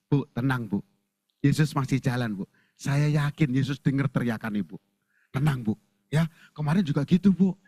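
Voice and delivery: low, calming reassurance; reassuring. Acted. A disciple to the shouting mother, gently reassuring. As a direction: soothe an upset mother. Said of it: "murid Yesus itu bilang ke ibunya".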